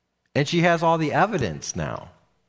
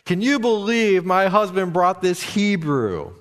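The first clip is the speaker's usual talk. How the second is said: raised, indignant accuser's voice; mock yelling; 4 semitones higher than usual. Wife yelling to the household about her husband, mock outrage. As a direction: act out her outraged complaint, pitched up. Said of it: "she's basically yelling and screaming".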